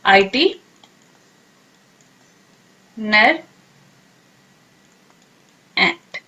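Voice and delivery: "आईटी, नर, एंट" split apart with long pauses; slow, syllable by syllable. Shown as a demonstration. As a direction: break it into slow separate syllables. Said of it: "इसको pronounce कैसे करेंगे".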